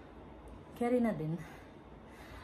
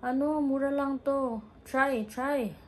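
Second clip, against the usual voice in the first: pushy vendor; 7 semitones higher, 3 dB louder, slower than usual. Retold or imitated. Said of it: "Sabi niya".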